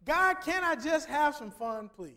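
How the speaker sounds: a slow, pleading whine to God; drawn-out mock complaint; whiny plea. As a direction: act out a frustrated believer begging for fun. Imitating a frustrated believer.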